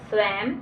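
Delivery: स्वयं ending in a closed "m" sound; final m sound. Shown as a demonstration. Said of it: "माँ के रूप में उच्चारित हो रहा है".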